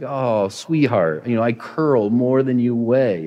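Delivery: put-on slow, fond teasing to a toddler; amused dad. Dad to his tackling three-year-old, slow and fondly amused. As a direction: gently tease a tiny attacker. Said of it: "when Ruby ... tries to tackle me".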